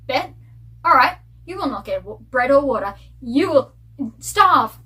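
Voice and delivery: loud, punchy mock threat; mock villager threat. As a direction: bark it out like a petty villager. Villagers punishing a stranger.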